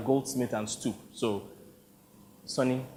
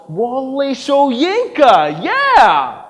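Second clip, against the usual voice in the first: higher, louder excited cut-in; eager recognition; 9 semitones higher, 8 dB louder, much slower than usual. Acted. Director recognizing Soyinka's play, excited. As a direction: jump in eagerly.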